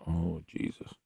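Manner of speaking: breathy exasperated whisper; whispered oh Jesus. Retold or imitated. Radio host whispering his disbelief to listeners. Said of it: "I'm going".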